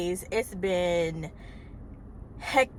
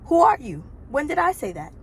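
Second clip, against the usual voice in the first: incredulous outburst; 6 semitones higher, 5 dB louder than usual. Retold or imitated. Her inner reaction to the lie.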